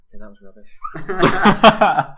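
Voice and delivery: slow, drawn-out sign-off; a drawn-out closing verdict; slowed last word. Pretend. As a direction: stretch each word out for the final time. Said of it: "final word of the show".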